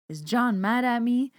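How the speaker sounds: high, plaintive grandma voice; high worried old lady voice. Retold or imitated. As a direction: ask like a fretting old lady.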